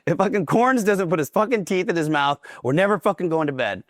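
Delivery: lightly acted drill-instructor order; retold drill instructor. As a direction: imitate an instructor laying down an ultimatum. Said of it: "so he's like".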